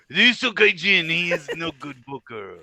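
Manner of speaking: loud, high put-on accent; fake Asian accent. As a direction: ham up a bad Asian accent. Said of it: "That's not how Jake Lee talks at all".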